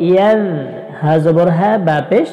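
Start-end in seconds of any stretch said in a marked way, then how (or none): 0.1-0.4 ইয়াজ raised in pitch, with a soft "dh" ending; soft consonant. Shown as a demonstration. Quran teacher repeating the soft letter, ইয়াজ ending in soft "dh". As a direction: let ইয়াজ end on a gentle voiced th. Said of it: "নরম".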